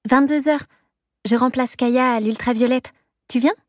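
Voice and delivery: a hint of a chirpy friend; lightly voiced roommate.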